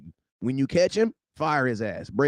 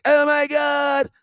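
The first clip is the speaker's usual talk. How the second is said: higher, slow shout of disbelief; waking up amazed at the Cowboys, shouted slowly; mock amazement; 8 semitones higher, much slower than usual. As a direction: stretch it out in mock shock. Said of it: "I wake up in the morning like".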